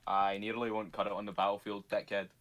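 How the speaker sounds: put-on Scottish accent. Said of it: "am I still doing the Scottish accent".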